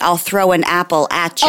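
"apple at ya" run together, the latch sound of "Appalachia". Shown as a demonstration. Co-host teaching listeners to say Appalachia, playful. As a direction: say "I'll throw an apple at ya" to show how Appalachia sounds. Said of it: "it's Appalachia".

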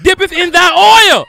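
hammed-up sermon chant; mock preaching. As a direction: draw out the holy words like a revival preacher.

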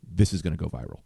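low, quiet deadpan quote; unlaughing verdict. Retold or imitated. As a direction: deliver it without a trace of laughter. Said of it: "He doesn't laugh once".

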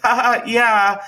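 high, fake little laugh. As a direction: imitate the boss awkwardly brushing it off. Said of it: "laughing it off, trying to".

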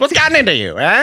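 high, hammed-up old-movie demand; mock confrontation, as if shaking someone by the shoulders; say it like you mean it. Shown as a demonstration. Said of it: "say it like you mean it".

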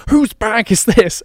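loud, high, slow accusing demand; mock angry flyer. Angry man demanding the suitcase's owner, mock outrage. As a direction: imitate an outraged passenger hunting the culprit. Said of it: "angry flyers".

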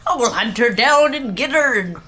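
mock-menacing Scottish cartoon villain; hammed-up Scottish animation villain; bad Scottish voiceover. Shown as a demonstration. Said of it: "the Scottish voiceover?".

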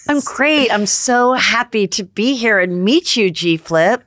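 a hint of a bubbly realtor; lightly voiced Chrishell flirting. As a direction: play Chrishell meeting her future wife. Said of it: "I'm gonna be Chrishell".

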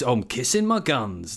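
slow, stretched radio-host cadence; mimicked presenter rhythm. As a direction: lay on the slow, affected rhythm. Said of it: "there's just this rhythm to, to talking".

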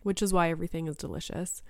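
a tired voice that keeps giving out. Real, not acted. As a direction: voice going hoarse and weak. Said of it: "I'm losing my voice again".

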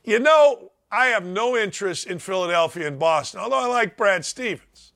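ordinary talk, nothing marked

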